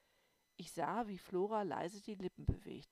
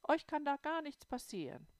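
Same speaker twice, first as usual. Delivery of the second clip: reassuring; 9 semitones higher, 6 dB louder than usual. A narrator's reading. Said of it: "meinte Oma Bömsken beruhigend".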